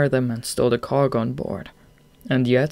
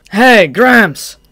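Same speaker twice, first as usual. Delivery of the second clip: loud, higher gleeful call; gleeful shout; 8 semitones higher, 12 dB louder than usual. Acted. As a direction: shout at the old man with glee. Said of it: "shouted with glee".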